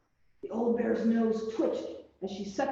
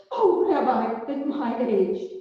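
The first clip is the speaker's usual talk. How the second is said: bashful; 4 dB louder, slower than usual. A narrator's reading. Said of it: "Baba Brena blushed".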